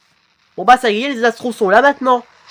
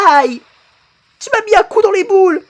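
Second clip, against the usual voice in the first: very high, fast yelp; pained squeal; 12 semitones higher than usual. Acted. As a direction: squeal it out as if hit. Hit in the groin, play fight. (couinement de douleur rapide)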